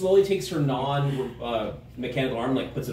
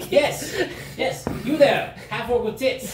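high eager pointing; 9 semitones higher, slower than usual. Acted. NPC eagerly picks a recipient.

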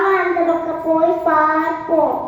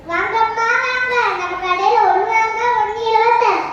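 singsong street hawker; 2 semitones higher, faster than usual. Acted. Shopkeeper calling customers.

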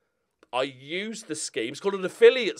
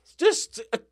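much higher and louder, slowed in disbelief; incredulous rising outrage; 11 semitones higher, 5 dB louder than usual. Real, not acted. YouTuber marvelling at a covid denial comment, incredulous. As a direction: build up in stunned amazement.

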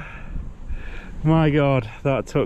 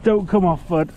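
thrilled; 9 semitones higher than usual. Real, not acted. Fish finally hooked on camera.

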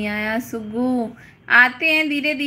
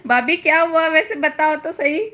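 laughing; 4 semitones higher than usual. Real, not acted. Laughs while asking bhabhi.

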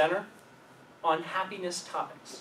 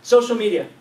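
laughing; 5 semitones higher, 12 dB louder than usual. Real, not acted. Laughing at the goldfish impression.

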